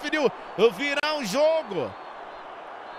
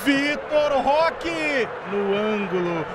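goal call; slower than usual. Real, not acted.

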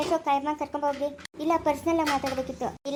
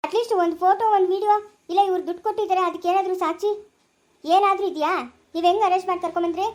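louder, higher heated challenge; angry argument; 3 semitones higher, 4 dB louder than usual. Acted. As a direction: push back hard at the officer. Lawyer angrily confronts the police officer.

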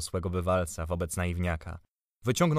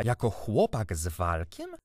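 irritated; 2 semitones higher, 4 dB louder than usual. A narrator's reading. Uncle hearing of the boy and his servant, irritated. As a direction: stretch it out in growing indignation. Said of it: "Zirytował się".

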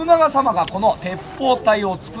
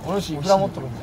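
fast, brisk question; quick lord's question; 4 semitones lower, much faster than usual. Retold or imitated. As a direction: rattle it off quickly. Lord asks retainer about money. (早口の殿様)

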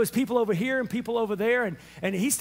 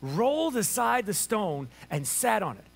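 unhurried reading over music; scripture reading. Acted. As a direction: read the resurrection story with reverence. Reads scripture to congregation.

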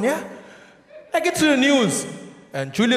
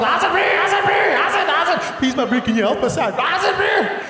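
Bluff bro voice; 7 semitones higher than usual. Acted. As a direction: beg like a Bluff beach bum. Bluff guys voiced as monkeys.

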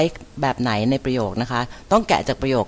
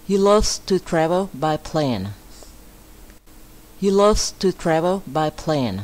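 higher, careful English teacher reading; model sentence reading; 3 semitones higher, much slower than usual. Shown as a demonstration. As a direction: read it out clearly for learners to repeat.

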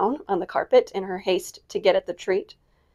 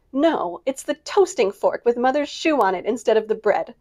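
teasing cry; 3 semitones higher than usual. Acted. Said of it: "cried Meg".

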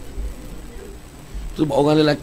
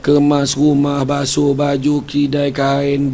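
emphatic list; 3 semitones higher, 4 dB louder, much slower than usual. Acted. Listing chores emphatically.

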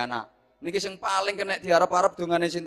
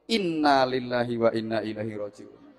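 mock condolence; 5 semitones lower, 4 dB quieter than usual. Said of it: "kartu nem mati".

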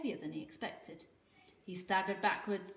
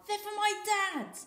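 snarling; 14 semitones higher, 6 dB louder than usual. A narrator's reading. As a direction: snarl it at the bully. Volga continues angry demand.

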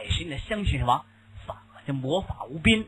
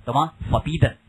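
forbidden called out loud for the class; teacher drilling forbidden aloud; loud drilled word; 3 dB louder than usual. Shown as a demonstration. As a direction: repeat forbidden firmly and loudly. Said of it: "Forbidden words".

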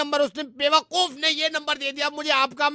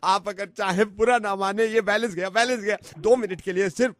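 tearful begging. Pretend. Caller swearing on children for two minutes of talk, mock-tearful begging. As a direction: beg as if close to tears. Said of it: "आप रोइए नहीं".

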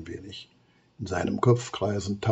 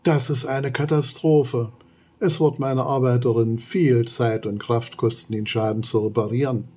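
shaken cry; 2 semitones higher, 4 dB louder than usual. Acted. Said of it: "ruft erschüttert".

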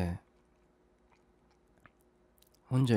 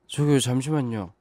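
raised, higher, louder and urgent; urgent alarm; 3 semitones higher, 5 dB louder than usual. Acted. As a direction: call out to stop them. Caller in crisis, urgent calling out.

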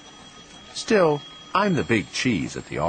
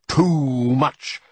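higher, louder repeat; insistent scolding; 5 semitones higher, 6 dB louder than usual. A narrator's reading. Grandfather on grandson's spending, insistent scolding. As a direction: hammer it home with raised voice.

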